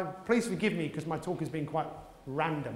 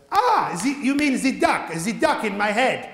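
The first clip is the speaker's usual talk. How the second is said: high, loud sudden realisation; louder, higher mock footballer discovering his duck; excited realisation; 4 semitones higher, 7 dB louder than usual. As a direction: blurt it out like a eureka moment. French footballer voiced in story.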